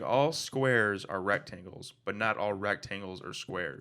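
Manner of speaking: slowly, each word spelled out; slow and deliberate. Shown as a demonstration. Friend repeats the geometry rule slowly on request. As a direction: lay it out slowly like a lesson. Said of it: "say it again".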